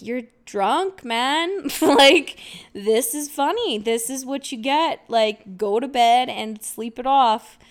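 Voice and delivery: imitating an amused, teasing dad; amused dad laughing. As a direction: tease lightly, with a laugh breaking in. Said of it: "laughing at me".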